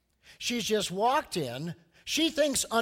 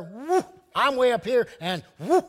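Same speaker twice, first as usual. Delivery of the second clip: smug boast; 5 semitones higher, 8 dB louder than usual. Retold or imitated. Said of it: "Pharisee thought".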